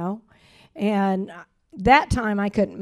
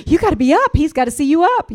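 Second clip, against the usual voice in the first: mock pep talk; 6 semitones higher, 8 dB louder, much faster than usual.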